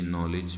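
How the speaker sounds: "नॉलेज" with a j sound and no d; silent D. Shown as a demonstration. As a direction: say "नॉलेज" for knowledge, D left silent. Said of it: "डी silent हो जाएगा".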